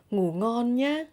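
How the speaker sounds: Northern accent, "nhá" climbing on a rising tone; Northern Vietnamese accent. Shown as a demonstration. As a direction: say it Northern style, lifting "nhá" upwards. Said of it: "in Northern accent, you will say".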